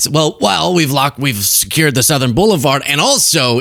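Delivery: lightly imitated blustering president; a hint of a smug politician covering a gaffe; mock bluster. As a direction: breeze past the slip like you meant it. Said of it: "acts like he meant to say it and goes".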